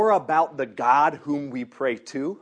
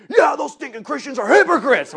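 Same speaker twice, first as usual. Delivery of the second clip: imitating him, higher and louder, scornful; mock angry snap; 13 semitones higher, 10 dB louder than usual. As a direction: spit it out like an indignant punk agreeing. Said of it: "snaps again".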